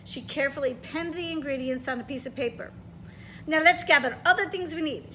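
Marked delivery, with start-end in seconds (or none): 3.5-5.1 exclaiming. Acted. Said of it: "she exclaimed".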